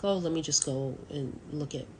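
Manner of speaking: talking through a yawn; words stretched by a yawn. Real, not acted. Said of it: "I wasn't yawning".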